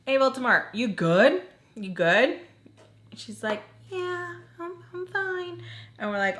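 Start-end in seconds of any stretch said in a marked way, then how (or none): 0.1-2.4 raised voice calling through a locked door. Retold or imitated. Friend knocking, calling to roommate through the door, raised. 3.9-5.6 high, soft voice answering from behind a door; muffled reply. Retold or imitated. Roommate answering friends through locked door, high and soft.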